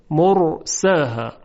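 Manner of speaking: مرساها slowly, with a thick r; drawn-out مرساها, heavy ر. Shown as a demonstration. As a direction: keep the ر full and heavy in مرساها.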